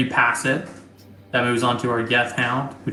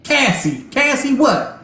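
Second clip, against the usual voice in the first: high, loud, stuttering robot voice; a glitchy robot stammering its words, pitched up; 11 semitones higher, 4 dB louder than usual. Acted. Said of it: "a robotic voice come over and goes".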